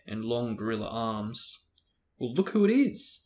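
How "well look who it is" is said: sneering, high, loud drawl; lazy sneer at old enemies. A narrator's reading. Malfoy taunting Harry at the door, lazy drawl. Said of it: "in his usual lazy drawl".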